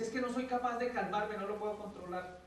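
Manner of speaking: put-on a desperate kid who can't stop; child crying out that he cannot calm himself; upset child.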